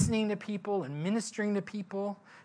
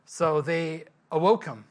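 ordinary talk, nothing marked

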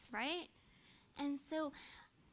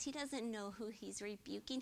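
normal talking voice

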